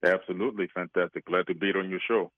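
lightly put-on Greek accent, disguising his voice; mystery guest hides his real voice behind a Greek accent. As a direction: caller playing a guessing game, in a light fake Greek accent. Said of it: "That was my new Greek accent".

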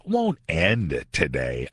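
sarcastically set-apart words; audible air quotes. Real, not acted. Radio host quoting a failed prediction, sarcastic air quotes. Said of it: "I'm using air quotes in the studio".

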